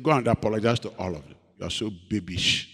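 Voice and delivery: low, soft scolding; God's quiet rebuke. Retold or imitated. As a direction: rebuke gently as God. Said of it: "He said".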